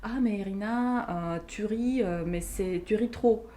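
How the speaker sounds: hint of a scolding grandmother; chiding grandmother. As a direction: play grandma gently scolding a child who laughs too much. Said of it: "ma grand-mère me disait".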